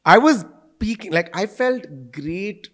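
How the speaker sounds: high, loud bragging; playful boasting. Real, not acted. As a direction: brag like a rock star. Mock boast about school fame.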